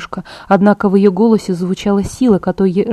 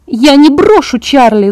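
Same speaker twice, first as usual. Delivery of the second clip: higher, louder, slow defiant yell; 5 semitones higher, 5 dB louder, slower than usual. Acted. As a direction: shout it at them, refusing. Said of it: "заорала я".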